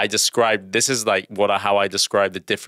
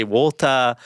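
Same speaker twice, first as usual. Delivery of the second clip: put-on British accent; 2 semitones higher than usual. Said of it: "I'll say".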